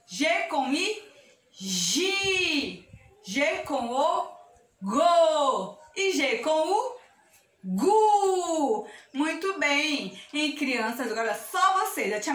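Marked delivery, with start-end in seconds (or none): 1.5-2.9 GI held long on the vowel; drawn-out syllable. Shown as a demonstration. Teacher joins G and I for children, drawn out. 4.8-5.8 drawn-out syllable. Shown as a demonstration. Teacher joins G and O for children, drawn out. 7.6-8.9 GU held long on the vowel; drawn-out syllable. Shown as a demonstration. Teacher joins G and U for children, drawn out.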